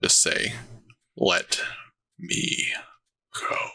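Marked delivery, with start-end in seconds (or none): 1.2-3.6 breathy, whispered demon voice. Six people there speak together in the demon's voice: demon voice. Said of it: "in the demon's voice".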